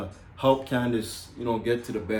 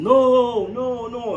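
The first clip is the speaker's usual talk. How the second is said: retold screaming no; 11 semitones higher, 6 dB louder, much slower than usual. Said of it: "I was screaming".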